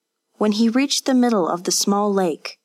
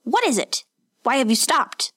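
master calling out; 5 semitones higher than usual. A narrator's reading. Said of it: "His master called out to him".

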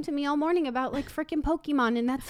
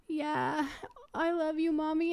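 put-on little boy voice; 4 semitones higher, 5 dB quieter, slower than usual. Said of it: "He's like".

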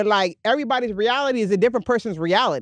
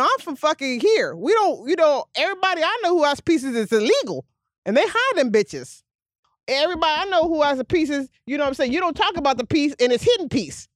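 normal talking voice

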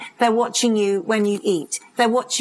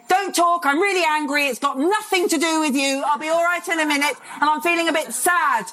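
put-on kids' feelings report; 6 semitones higher than usual. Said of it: "they'll say".

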